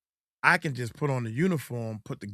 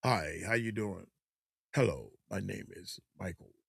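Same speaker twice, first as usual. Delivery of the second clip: fake polite voice; 4 semitones lower, 7 dB quieter than usual. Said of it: "put on the bow tie".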